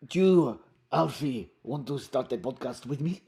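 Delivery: put-on accented, measured mysterious foreigner; Romando. Romando seeks Alfie, put-on accented character voice. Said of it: "I've chosen to go low".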